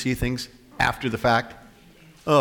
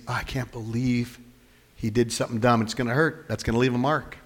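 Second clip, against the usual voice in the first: gentle grief; 3 dB quieter than usual. Retold or imitated. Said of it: "It means".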